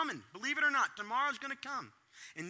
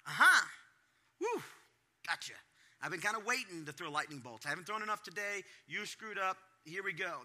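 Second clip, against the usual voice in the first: gloating. Retold or imitated.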